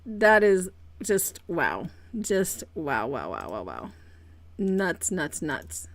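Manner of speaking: dazed repeats fading low; stunned wow. Real, not acted. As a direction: trail off in speechless amazement. Stunned after a lucky win.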